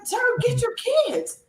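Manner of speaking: high, slow, stern order; a mock fed-up command, drawn out; stern demand. Passenger ordering the father to control his kids, high and stern. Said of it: "He said".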